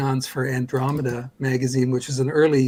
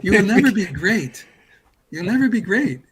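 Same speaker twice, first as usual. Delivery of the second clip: mock French master; 6 semitones higher, 4 dB louder than usual. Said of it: "but he goes".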